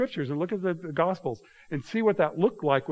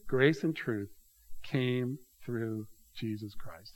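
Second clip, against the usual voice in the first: scripture reading. Acted. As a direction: linger on each word of the verse. Reads John aloud, slow.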